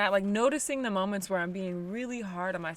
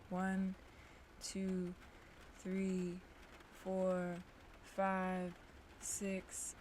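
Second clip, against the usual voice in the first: guided breathing; 7 dB quieter than usual. Acted. Leads a breathing practice.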